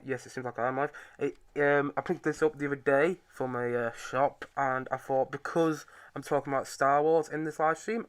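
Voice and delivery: talking through a mask; muffled behind a face mask. Real, not acted. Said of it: "take the mask off so you guys can hear me a bit better".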